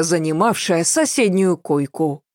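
ordinary delivery, nothing marked

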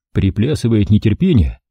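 usual speaking voice

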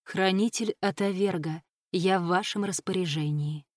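solemn formal reply; measured, ceremonial pledge of service. A narrator's reading. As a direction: answer with restrained ceremony. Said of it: "ответил столь же торжественно".

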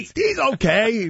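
mock a pundit's grudging verdict; stretched, dismissive imitation; imitating Stephen A. Smith. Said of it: "he says it like that".

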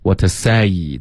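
"What to say" with the mouth opened wide on "say". Shown as a demonstration. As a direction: open up the vowel of "say", never "see". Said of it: "嘴巴张开". (“say”嘴巴张开，别发成see)

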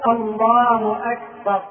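slow الله, then أكبر with a short -bar; correct takbir. Shown as a demonstration. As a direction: end أكبر on a short vowel: akbar. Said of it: "لكن الصواب أن تقول".

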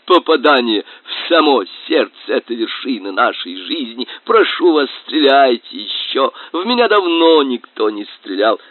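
high, blissful and eager; ecstatic high voice. Acted. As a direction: swoon with delight at being shot. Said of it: "кричал фанерный".

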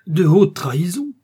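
horrified exclamation of disbelief; terrified cry. A narrator's reading. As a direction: cry it out, appalled. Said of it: "s'écria Bonacieux, épouvanté".

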